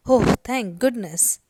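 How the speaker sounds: acted sigh of relief; relieved. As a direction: let it out like a boy off the hook. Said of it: "with a sigh of relief".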